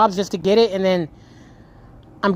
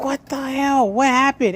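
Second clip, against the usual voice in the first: retold shock; 6 semitones higher, slower than usual. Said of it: "And I was like".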